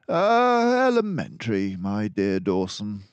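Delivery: a composed mouse detective taking charge; Basil the detective. Acted. Basil's smug catchphrase.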